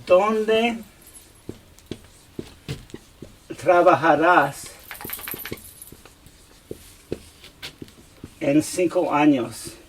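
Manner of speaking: "¿Dónde trabajarás en cinco años?" spaced out slowly, word by word, with long gaps; slow model question. Shown as a demonstration. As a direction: read it slowly so students catch each word. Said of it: "if I said to you".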